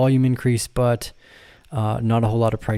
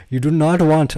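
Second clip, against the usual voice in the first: put-on Southern accent; 4 semitones higher, 5 dB louder than usual. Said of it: "From Southern to my Indian accent".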